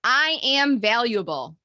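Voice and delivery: slow, deliberate affirmation; each word stretched with conviction; mantra lead. Shown as a demonstration. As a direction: lead it for a group to repeat. Leading group affirmation for repeating.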